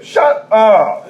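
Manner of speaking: high, punched mock rebuke; exasperated outburst. God fed up with begging prayers.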